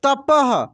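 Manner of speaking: अतः said slowly with a clear breathy "ah" released after the last consonant; teacher drill, stretch the final ः into an audible "aha"; breathy visarga ending. Shown as a demonstration. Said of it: "अह का उच्चारण हो रहा है".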